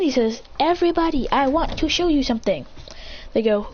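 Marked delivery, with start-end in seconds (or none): 0.6-2.6 raised-pitch call to everyone; lightly acted announcement; eager announcement. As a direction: gather the group, voice lifted. Announces a demonstration.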